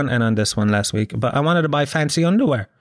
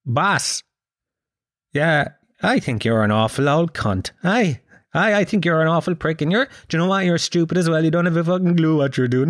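higher-pitched chummy pet-talk voice; friendly voice; 5 semitones higher than usual. Shown as a demonstration. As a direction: insult the boss as sweetly as to a cat. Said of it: "in a friendly voice".

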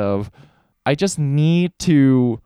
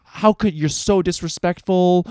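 mock angry dad; 5 semitones higher than usual. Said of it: "He was just yelling at me".

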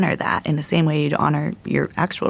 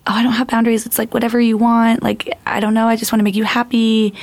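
high, eager voice of someone who gives in to everything; codependent people-pleaser; 6 semitones higher than usual. Retold or imitated. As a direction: play the person with no boundaries, pitched up and pleading. Voicing a codependent partner's plea.

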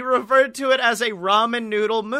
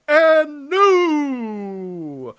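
the Fink; 7 semitones higher, 4 dB louder than usual. Retold or imitated. Fink's famous ring call.

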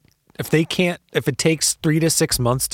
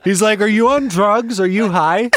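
high, louder quote broken by laughter; retelling the cop's questions, laughing; laughing through it; 9 semitones higher, 5 dB louder than usual. Retold or imitated. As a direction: mimic the cop while cracking up. Retelling cop while laughing.

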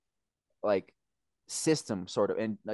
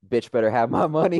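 A singer's lyric quote; 5 dB louder than usual. Retold or imitated. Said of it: "who was it? Was that her?".

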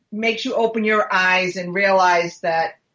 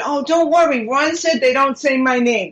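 higher, lilting self-quote; retold reassurance; 4 semitones higher than usual. Wife reassuring her husband about the show, retold breezy reassurance. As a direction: replay your own confident soothing, pitched up. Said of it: "And I said".

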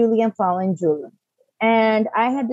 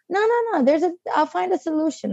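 retold insistence; 6 semitones higher than usual. Retold self refusing to stop.

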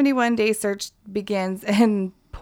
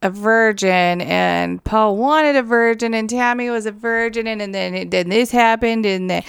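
mock rambling excuse; 4 dB louder than usual. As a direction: stumble through an excuse. Voicing killer's excuses.

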